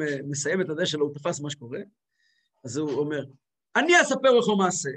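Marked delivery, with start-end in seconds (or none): 3.8-4.9 grandfather's speech quirk, L turned to W in "לך"; imitated missing L. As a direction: say "לך" with a W-like sound for ל, higher and louder. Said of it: "לא היה לו למד, היה לו ומד". (חיקוי של סבא, "לך" עם וו במקום למד)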